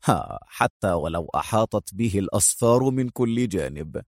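low amused sarcasm; sarcastic. Acted. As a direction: scoff lightly, low. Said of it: "في سخرية".

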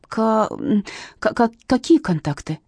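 stammering, shaky question; trembling voice. Acted. Frightened witness stammering at the captain. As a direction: stutter out the fear. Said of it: "переспросила та дрожащим голосом".

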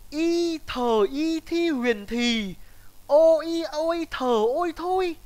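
spelling out each letter very slowly; sounding out words. Shown as a demonstration. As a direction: spell Y thờ y thi huyền thì letter by letter. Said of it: "có cần tôi phải đánh vần từng từ không".

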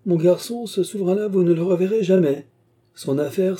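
high-pitched, gleeful teasing; amused exclamation, no real laugh; highly amused. A narrator's reading. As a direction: break the news with mirth, voice well up. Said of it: "Cria Trevor en éclatant de rire".

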